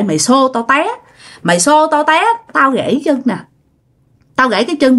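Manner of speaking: mildly acted telling-off; lightly voiced reproach; retold scolding. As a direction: imitate an aggrieved father listing old wrongs. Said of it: "Quay qua chửi".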